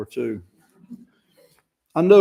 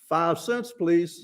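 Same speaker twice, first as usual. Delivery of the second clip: Lucy's price; 4 semitones higher, 3 dB quieter, much slower than usual. Acted. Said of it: "she has a sign up".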